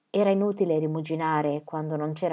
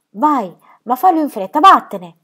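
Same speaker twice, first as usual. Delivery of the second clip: louder and higher, pushing her away; anguished outburst; 6 semitones higher, 9 dB louder than usual. Acted. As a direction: drive her off before you break. Birk sends Ronja away.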